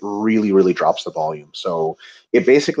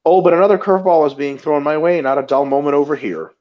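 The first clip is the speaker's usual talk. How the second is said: reading as Ito; 4 semitones higher than usual. Pretend. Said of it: "Ito Dagul says".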